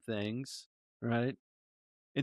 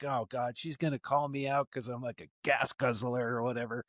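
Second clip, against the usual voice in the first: softer, muttered dread; worried inner thought; 6 dB quieter than usual. Retold or imitated. Fearing the lady will call him a gas guzzler, softly muttered. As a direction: mumble it like a private worry.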